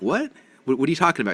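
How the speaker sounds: sharp rise of disbelief; surprised. Retold or imitated. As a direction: caught off guard, high and startled. Retold shock at dentist remark.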